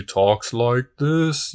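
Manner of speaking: a hint of a possessed woman's voice; imitating her demon voice. Podcaster showing how the temptress suddenly speaks, lightly imitated. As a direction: lightly slip into the creepy voice she uses. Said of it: "her voice gets really, really deep".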